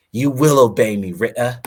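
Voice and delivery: high, loud acted command; imperious high-pitched shout; lordling's shout. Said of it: "He shouted, drawing his sword".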